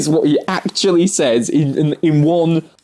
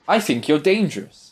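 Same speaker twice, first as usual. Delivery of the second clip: 1940s voice; 3 semitones higher, faster than usual. Retold or imitated. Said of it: "he was doing, like, a nineteen forties".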